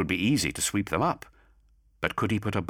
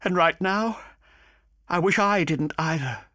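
higher, bitter, despairing voice; bitter and desperate; 12 semitones higher, 3 dB louder than usual. A narrator's reading. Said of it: "a bitter, desperate sound".

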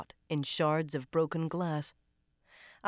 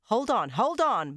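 loud, higher commands; commanding; 6 semitones higher, 6 dB louder than usual. A narrator's reading. McGovern commanding the crew as Lucy panics, loud. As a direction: hold the scene with your voice. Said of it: "McGovern commanded".

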